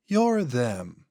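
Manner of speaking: slow, drawn-out otherworldly voice; an ancient thing speaking through a man; eerie, unhurried entity; possessed alien voice. Acted. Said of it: "voice and inflections are noticeably different".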